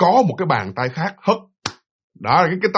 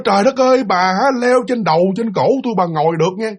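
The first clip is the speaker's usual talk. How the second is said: acted-out outburst, higher at the start; mildly raised, indignant telling-off; angry scolding; 3 semitones higher than usual. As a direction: scold as the fed-up husband. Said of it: "ổng mới chửi đó".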